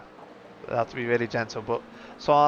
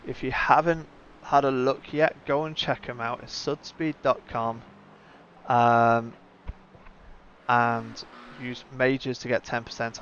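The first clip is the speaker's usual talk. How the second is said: upbeat, slightly raised streamer plug; sponsor read. Real, not acted. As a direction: pitch the sponsor to the viewers with punchy emphasis.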